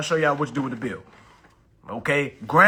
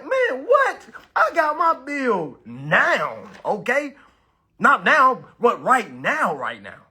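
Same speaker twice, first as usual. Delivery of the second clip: high, loud, eager outburst; excited outburst; 7 semitones higher, 6 dB louder, slower than usual. Acted. Streamer acts out his reaction to such an offer, excited and loud. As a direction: burst out loud, stretching NOW.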